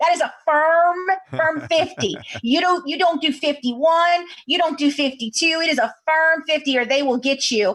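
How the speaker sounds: put-on small-town Louisiana accent. Retelling what a man told the speaker about the speed sign, in a Louisiana accent. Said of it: "he's talking in his Louisiana accent".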